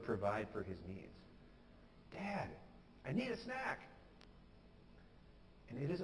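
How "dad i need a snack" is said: high but soft mock holler; confident cry, held back. Hungry boy sure of his dad, softly mimicked call. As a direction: imitate a boy calling out, volume turned down. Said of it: "he cried out boldly and confidently".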